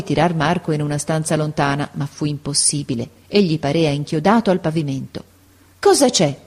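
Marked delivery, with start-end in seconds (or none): 5.8-6.4 anxious question. A narrator's reading. Boy anxious for his mother.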